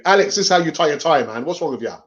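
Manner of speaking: lightly voiced nagging brother; bossy brother. Brother showing him how to tie a tie, mock bossy. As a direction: imitate a brother telling you off. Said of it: "before my brother showed me".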